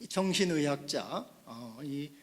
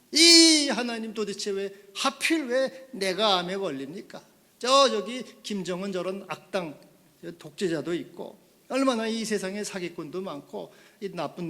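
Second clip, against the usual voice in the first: loud indignant cry to God, fading down; angry complaint that cools off; angry protest; 4 dB louder than usual. Retold or imitated. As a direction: rail at God, then wind down. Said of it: "화를 막 내".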